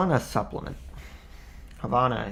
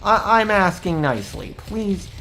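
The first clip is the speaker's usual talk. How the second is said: mock-stern commands rising to anger; calm turning angry; 6 semitones higher, 5 dB louder than usual. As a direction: escalate from polite to furious. Demands escalate under fire.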